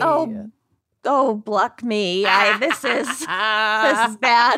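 slow, breathy whispery voice. Acted. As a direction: breathe the words out slowly. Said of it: "hate when you do that whispery voice".

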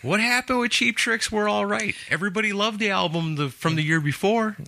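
incredulous. Real, not acted. Incredulous question.

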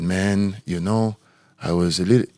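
lightly imitated Spanish accent; a rough go at a Spanish agent; Pedro. Player voices his agent's worried reply, shaky attempt at Spanish accent. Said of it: "Spanish guy".

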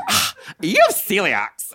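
a hint of a casual doctor, slow; doctor's offhand news. Doctor casually telling the patient her diagnosis. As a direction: drop the news lightly and slowly. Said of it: "he was like".

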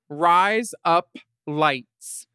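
"Rise up lights" spaced out, each word separate; said slowly. Shown as a demonstration. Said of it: "Say it fast".

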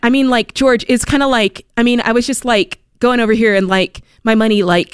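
halting ramble leaning on every "like"; like-peppered filler talk. Shown as a demonstration. Co-host showing George her pet peeve, exaggerated filler-word rambling. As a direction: demonstrate rambling, filler-stuffed chatter. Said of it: "when people say the word "like".

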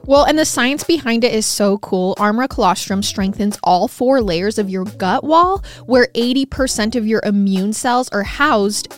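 bright promo delivery, easing off at the end; ad read. Acted. Host continues sponsor pitch to listeners, upbeat ad voice. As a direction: pitch the science like a commercial.

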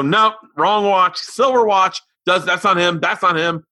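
put-on high, loud child dismissing each suspect; fussy kid. Daughter watching the movie, dismissing suspects, high and loud. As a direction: rule them out like a know-it-all kid. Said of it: "she'd go".

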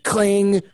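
imitated cling. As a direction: mimic the lamp being struck. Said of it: "it's like".

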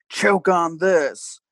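slow, stretched-out ghostly words; lightly acted spook, drawn out; spooky ghost voice. Host offering what the ghost says, spooky. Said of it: "sort of a deep, spooky voice".

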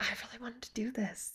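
wistful, hushed regret; retold sadness. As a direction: say it softly, quietly let down. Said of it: "I was also really sad".

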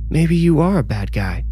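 high, cutting taunt. Acted. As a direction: lean hard on are. Pia taunting in argument.

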